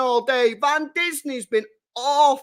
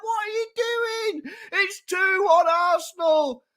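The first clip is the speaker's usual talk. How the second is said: high voice laughing through the words; laughing disbelief; 7 semitones higher, slower than usual. Real, not acted. Fan cackling at the opponent's goalkeeper error, laughing disbelief.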